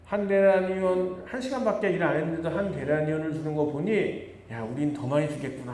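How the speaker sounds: mock excitement. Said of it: "하고 기분이 들떴습니다".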